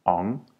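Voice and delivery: "ong" with a single nasal ng, no G; ng demo; one ng sound. Shown as a demonstration. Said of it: "the sound there is N G".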